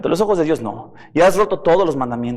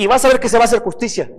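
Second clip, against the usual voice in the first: heated threat; 6 semitones higher, faster than usual. Retold or imitated. Preacher voicing a vengeful debtor, rushed heated threat. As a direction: rush it out vengefully.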